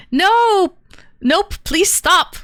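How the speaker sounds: high, loud no, then drawn-out plea; mock protest. Host objects to guest's Russian accent, mock protest.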